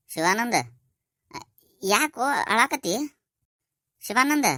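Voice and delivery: high, rising, worried calls; alarmed concern. Acted. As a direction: call out to a crying son in alarm. Father sees his son crying. (ಗಾಬರಿಯ ಕಾಳಜಿ, ಏರುದನಿ)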